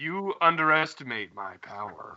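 low, hushed, ominous, dramatic villain voice. Mid-conversation with co-hosts, the speaker breaks into a line: Anakin voice. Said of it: "That was my Anakin voice".

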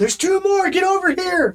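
shrill, very high, loud yell. Playing a character in a game, calling two others over, yelling. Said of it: "I yell at them".

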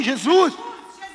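crying out. Retelling how a woman called out to jesus, speaking louder. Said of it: "Ela fala mais alto".

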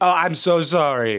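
mocking, whiny, sobbing tone. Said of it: "Boo fucking who?".

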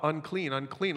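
plain

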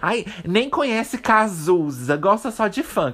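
slow, snooty, pedantic pseudo-intellectual drawl.

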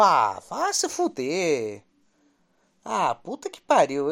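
fed-up, furious, low swooping, "fuder" stretched long. Cursing about Mirassol, the speaker is getting really pissed off. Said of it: "eu tô ficando puto mesmo".

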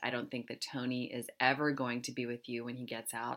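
ordinary delivery

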